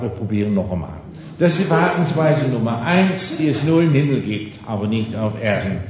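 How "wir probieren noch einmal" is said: tender reassurance. Retold or imitated. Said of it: "ich umarme sie und gebe ihr einen Kuss".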